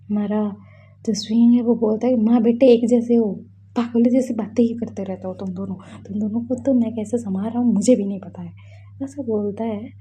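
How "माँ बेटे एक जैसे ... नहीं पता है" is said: exasperated scolding. Acted. Exasperated uncle scolding mother and son.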